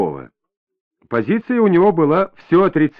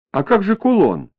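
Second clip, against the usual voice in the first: anxious, noticeably higher question; worried question; 7 semitones higher than usual. A narrator's reading. Larisa worried about her pendant as Igor leaves, higher anxious question. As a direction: ask it with sudden worry. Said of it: "обеспокоенно спросила Лариса".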